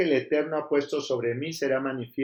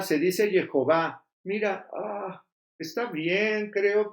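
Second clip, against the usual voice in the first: slow, higher, pedantic mock correction; mock know-it-all correction; 4 semitones higher, slower than usual. Preacher mocking people who insist on Hebrew names, slow and higher. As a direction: lightly mimic a fussy corrector of names. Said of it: "Hay personas que dicen".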